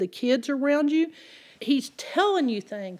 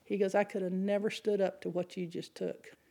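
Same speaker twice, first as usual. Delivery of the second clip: whispering; 3 semitones lower, 9 dB quieter than usual. Retold or imitated. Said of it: "he's whispering under his breath".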